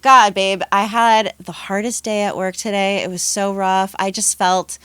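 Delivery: hammed-up sharing of a hard day; mock emotional venting. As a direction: play someone unloading on their babe, slowing on the last phrase. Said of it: "You don't just sit down and go".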